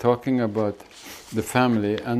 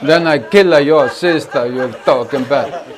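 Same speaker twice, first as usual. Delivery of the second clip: louder hammed-up threats piling up; mock vendetta; 5 dB louder than usual. Teacher plays the next family in the feud, mock rage. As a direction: escalate the feud, half laughing.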